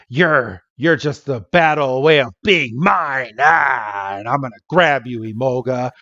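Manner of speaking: mock pirate Bianca, growled; a light hammed-up pirate threat; pirate-ish villain voice, lightly done. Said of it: "when did Bianca turn into a pirate?".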